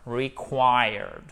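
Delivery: "Required" slowly with the English R audible; R sounded. Shown as a demonstration. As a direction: model "Required", sound the R before D. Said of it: "puisqu'on prononce le R". (« Required » avec le R prononcé)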